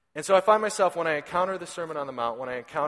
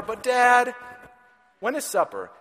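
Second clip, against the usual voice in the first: put-on much higher, louder little-boy plea; whiny toddler; 9 semitones higher, 7 dB louder than usual. Father imitating his son asking for lunch, high whine. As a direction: nag for lunch like a small child.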